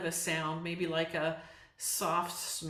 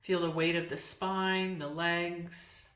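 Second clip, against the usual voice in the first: calm yoga nidra guidance with long pauses; unhurried meditation teacher leaving space between phrases; guided meditation. Acted. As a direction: ease them into relaxation, phrase by phrase. Leads a guided relaxation.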